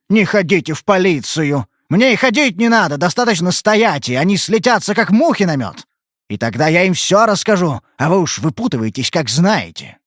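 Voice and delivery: mocking her words, high and loud; bitter angry outburst; angry sarcasm. He mocks her plea in anger. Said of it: "заорал он в ярости".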